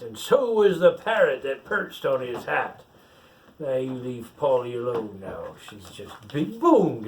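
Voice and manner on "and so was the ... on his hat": pirate reading a picture book aloud; story reading. Acted. Pirate reads the rhyme to the child, storytelling lilt. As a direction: read the verse out like a bedtime tale.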